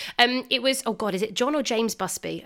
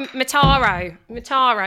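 louder retry of Mataro in a mock Australian accent; Australian accent attempt; 4 semitones higher, 6 dB louder than usual. Shown as a demonstration. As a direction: keep trying to nail the Australian Mataro. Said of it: "trying to put on an Australian accent".

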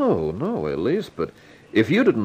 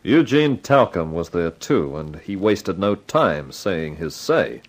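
first-person detective narration over music; story narration; 3 semitones lower than usual. Acted. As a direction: set the scene like a hard-boiled narrator. Narrator recounts next morning.

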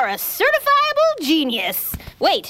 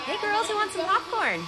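mom voice; 8 semitones higher, 5 dB quieter than usual. Acted. A parent calls the girls.

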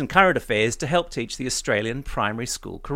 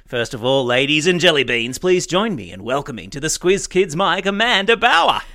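announcer's welcome; 4 dB louder than usual. Acted. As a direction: welcome the guest to the stage with a flourish. Ceremonial welcome of a guest.

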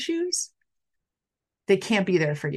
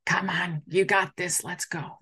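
soft, unvoiced come on you got this; whispered pep talk; 4 dB quieter, slower than usual. Friend whispering encouragement to someone going under, softly. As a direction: hush it like a secret push.

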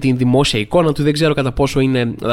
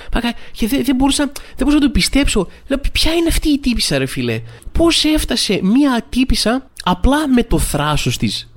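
disbelief; 8 semitones higher than usual. Real, not acted. Disbelief at the fake grandma.

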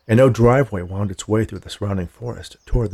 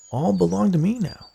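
awe; 9 semitones higher than usual. A narrator's reading. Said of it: "with a tone of awe in his voice".

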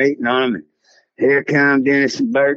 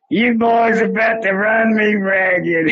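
higher, slow, worn-out lawman's plea; weary game warden; 9 semitones higher, slower than usual. Retold or imitated. Imitating the fed-up warden begging the boys to quit. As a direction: play the beaten-down warden, half laughing.

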